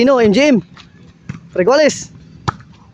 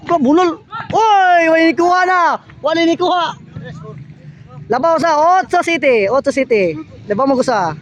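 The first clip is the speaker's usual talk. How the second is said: live play-by-play; 5 semitones higher than usual. Acted. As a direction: call the rally as it happens.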